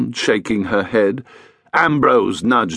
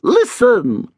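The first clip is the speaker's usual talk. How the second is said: high, sharp Listen with a falling end; high urgent Listen; urgent ghost command; 11 semitones higher than usual. Acted. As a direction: snap Listen at the others as the ghost leader. Edith urgently hushing the others.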